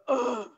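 short mock groan of annoyance; imitated exasperated groan. Imitating a date's reaction, an exasperated groan. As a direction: groan as if fed up with the talker. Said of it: "he would go".

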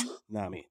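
"tsunami" with the T sounded before the S; T pronounced. Shown as a demonstration. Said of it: "Why is there a T?".

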